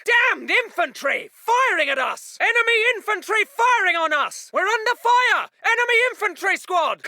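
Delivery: officer calling out enemy fire; indignant battle call. Acted. Officer reporting enemy infantry firing, urgent shout.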